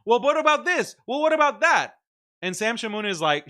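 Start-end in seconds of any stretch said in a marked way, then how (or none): 0.1-2.0 high, loud mock whine of the chat; high loud mocking impression of commenters; mocking whiny chat. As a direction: squeal their objections back at them high and loud. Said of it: "so much of the chat on his stream is like".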